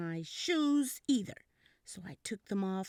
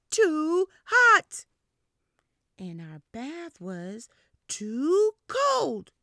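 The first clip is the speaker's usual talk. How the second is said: whiny complaining; 5 semitones higher, 10 dB louder, slower than usual. Acted. Toddler complaining loudly.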